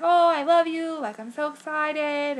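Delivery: mock-weepy excitement; happy crying. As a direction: gush it high, as if welling up. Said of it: "crying again".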